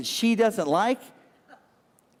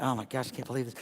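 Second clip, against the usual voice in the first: retold panic; 5 semitones lower, 6 dB quieter, much faster than usual. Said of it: "I was like".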